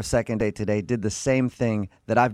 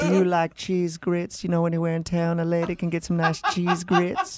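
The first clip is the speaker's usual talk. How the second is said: mock Southern belle accent; 6 semitones higher than usual. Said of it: "really cute Southern accent".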